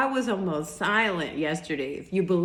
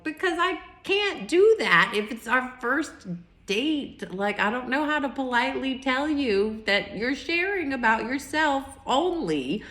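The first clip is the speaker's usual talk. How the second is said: exasperated retort; 5 semitones higher than usual. Retold or imitated. Retells arguing back to her date.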